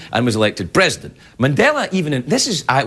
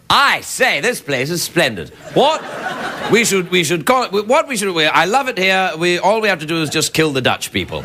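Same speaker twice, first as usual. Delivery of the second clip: plummy upper-class English colonizer, mock; a pompous Brit eyeing the land; posh British voice; 4 semitones higher than usual. Colonial Brits spotting gold, in a plummy mock accent.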